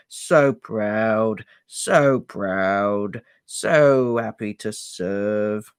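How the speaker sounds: slow, muffled elf telling. Acted. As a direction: rock and murmur into knees. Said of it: "his voice was muffled".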